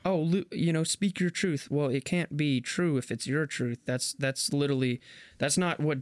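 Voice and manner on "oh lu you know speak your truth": mocking. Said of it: "people will say, like".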